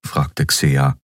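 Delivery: ordinary delivery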